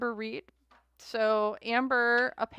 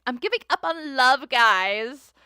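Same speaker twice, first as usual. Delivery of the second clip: mock dramatic despair; 3 semitones higher, 9 dB louder, slower than usual. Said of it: "She's like".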